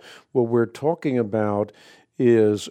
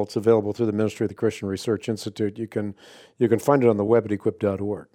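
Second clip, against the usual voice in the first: quick ad read; 2 semitones lower, faster than usual. Acted. Host plugging his ministry's website to listeners, quick promo read. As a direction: rattle off the website like a radio promo.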